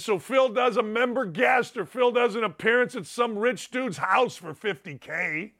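ordinary talk

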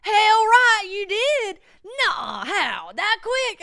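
high, loud, amazed; dad hearing weed was found, high and loud; excited dad. Retold or imitated. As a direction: imitate dad's delighted disbelief. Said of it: "He said".

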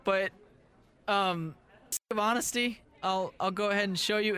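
put-on a kid confessing a scary secret; middle school voice. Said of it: "That's my middle school voice".

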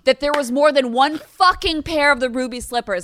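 loud, high rant. Real, not acted. Ranting at co-host about ruby slippers, loud shouting rant. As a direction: yell it like a tipsy mom. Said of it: "you scare me when you drink".

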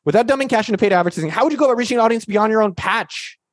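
put-on amateur Aussie accent, slightly off; Australian accent. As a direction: read the question in mock Australian. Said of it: "I'll do my Australian accent then".

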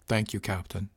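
muffled through the hatch. Acted. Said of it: "I heard a muffled".

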